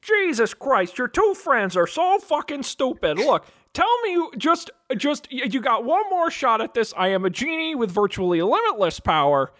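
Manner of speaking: impatient genie talking down to fools; mild put-upon genie; exasperated genie. Acted.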